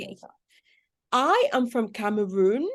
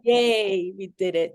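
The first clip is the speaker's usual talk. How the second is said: happy yay; 4 dB louder than usual. Real, not acted. Cheering the screen share working.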